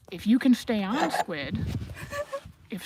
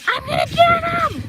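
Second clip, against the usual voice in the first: hammed-up squeal, far higher and louder; eager horse voice; 7 dB louder than usual. Squid tensing up near cows, squealing loud eager threat. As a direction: play a horse itching to charge the cows. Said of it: "She's like".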